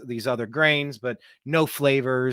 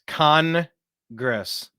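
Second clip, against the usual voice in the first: "Congress" with the first syllable pushed up and louder; stress on CON; 4 dB louder than usual. Shown as a demonstration. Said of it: "Emphasis on the word con".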